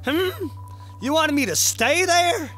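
a lightly voiced cowboy rock, teasing; hint of a sassy rock; folksy rock voice. Voicing the talking rock.

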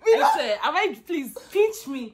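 can't believe her eyes, half crying; stunned disbelief. Real, not acted. Roommate stunned to see her friend, asking to be pinched.

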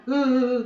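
mock wail of a crying father; imitated crying. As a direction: imitate a short, loud sob. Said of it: "My papa crying".

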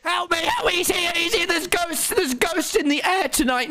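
high frantic calls for help; real half-playful panic; panicked yelling. Real, not acted. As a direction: shout it like something's chasing you. Panics seeing ghost Wilbur.

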